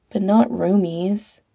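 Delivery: a touch of sadness, a little slow; sadly. Acted. Pete accepting he loses his roomie, mildly sad. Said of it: "Pete said sadly".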